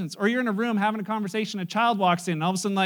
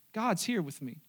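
quiet realization; 3 semitones lower, 6 dB quieter than usual. Acted. Monk's quiet realization, repeated.

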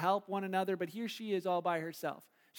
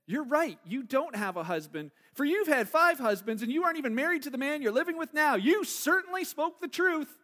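raised, animated acted declaration; emphatic acted pronouncement; 5 semitones higher, 3 dB louder than usual. Jesus answering the woman about her husbands, animated pronouncement. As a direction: play it as a pointed, knowing reply, pitch climbing. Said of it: "that might have been said".

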